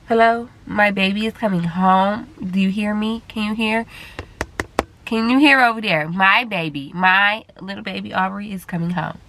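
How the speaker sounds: excited. Real, not acted. Joyful news to viewers.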